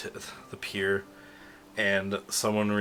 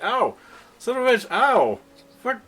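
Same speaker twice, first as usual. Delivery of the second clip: high, loud yelps and swearing; hammed-up squeals of pain; pained cursing; 10 dB louder than usual. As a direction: curse as if whacked in the shins. Spectators hit in shins.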